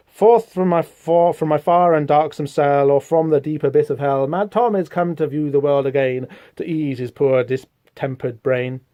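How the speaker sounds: slow, lightly dramatic recitation; a hint of theatrical poem reading; verse reading. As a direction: read the old poem slowly. Reading a mad verse aloud.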